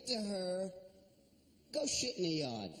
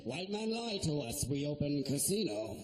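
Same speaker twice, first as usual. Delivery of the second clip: stereotype Native American voice; 5 semitones lower than usual. Retold or imitated. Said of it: "sounded like an American Indian".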